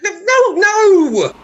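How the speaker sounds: high, loud panicked no; panicked shout. Acted. Husband stopping wife from coming outside, high loud panic. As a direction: yell to stop her.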